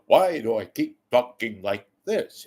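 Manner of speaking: lightly mocked broadcaster cadence; a hint of announcer lilt, self-questioning. Imagined newscaster questions himself, mildly stilted cadence. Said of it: "think to yourself".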